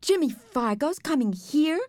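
high, dismayed question; funny-sounding voice. A narrator's reading. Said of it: "Sheila's voice sounded funny".

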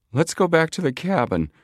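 a jittery push to head back; nervous urging. A narrator's reading. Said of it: "urged plump Chet Morton nervously".

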